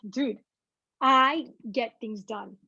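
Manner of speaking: slow, easy confidence; calm assurance. Retold or imitated. Telling herself calmly she gets things done, slow and easy. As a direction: say it slowly, totally unbothered. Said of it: "I'm like".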